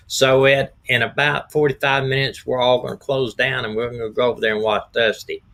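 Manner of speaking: slightly hoarse, frog in throat. Real, not acted. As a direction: talk through a hoarse throat. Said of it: "'Cause your voice, you just sound".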